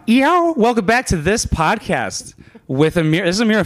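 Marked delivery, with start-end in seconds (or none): 0.1-2.3 high, drawn-out podcast opener; podcast intro. Pretend. Host opening the podcast on request, announcer-style greeting. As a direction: open the show with a high yo. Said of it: "you do the yo".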